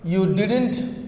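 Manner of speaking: "didn't" dipping then rising in hesitation; hesitant fall-rise ending on "didn't"; falling-rising tune. Shown as a demonstration. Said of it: "in hesitation".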